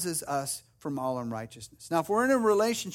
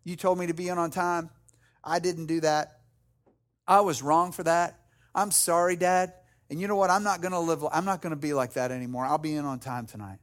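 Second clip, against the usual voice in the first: understated, earnest apology to a dad; sincere apology; 2 semitones lower than usual. Acted. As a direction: own up to dad simply and sincerely. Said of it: "look your dad in the eye".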